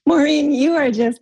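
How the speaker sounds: high, words riding on real laughter; laughing hard. Real, not acted. Coach reacting to a caller's husband story, laughing. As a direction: talk through the laughter. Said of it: "I'm laughing so hard".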